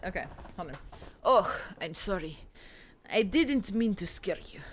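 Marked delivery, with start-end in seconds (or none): 1.2-4.6 a faint hint of a Russian accent on the apology; lightly put-on Russian accent, barely different. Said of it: "give him Russian accent?".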